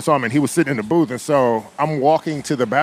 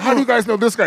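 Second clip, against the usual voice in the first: high, animated imitation; acting out a friend's teasing question; playful quoted question; 11 semitones higher, faster than usual. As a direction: call it to the table in a raised pitch. Quoting star addressing the table.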